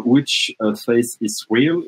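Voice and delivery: English site name said slowly in a French-Canadian accent. Real, not acted. Presenter naming the AI site, slow English with French-Canadian accent. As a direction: read "Which Face is Real" carefully in a Québécois accent. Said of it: "excusez-moi pour, euh, mon accent, euh, anglais".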